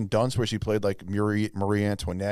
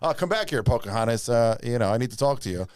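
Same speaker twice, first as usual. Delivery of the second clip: mock American accent. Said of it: "the Indian guy would talk".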